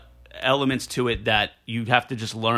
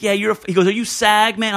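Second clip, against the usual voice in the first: light Nuyorican impression, higher; seventies Puerto Rican; 7 semitones higher, 3 dB louder than usual. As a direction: play the director's laid-back street cool lightly. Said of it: "he thinks he's Puerto Rican".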